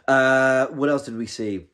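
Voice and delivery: hiccup-broken speech. Real, not acted. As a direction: speak with hiccups. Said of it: "I'm hiccuping".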